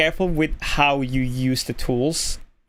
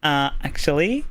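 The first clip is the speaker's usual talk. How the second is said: lightly voiced Valley Girl with a rising end. Shown as a demonstration. Streamer showing a voice-training trigger phrase, light Valley Girl voice. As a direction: lilt up into a hint of Valley Girl. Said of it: "use the Valley Girl voice and go".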